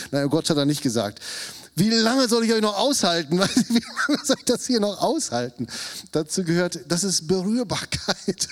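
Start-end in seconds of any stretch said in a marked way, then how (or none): 1.7-5.7 exasperated sigh. Acted. Exasperated Jesus with his disciples.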